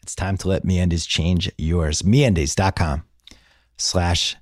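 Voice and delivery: measured host-read sponsor spot; podcast ad read. Acted. Host pitching MeUndies to podcast listeners, conversational ad read. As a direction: read the sponsor copy conversationally, with deliberate pauses.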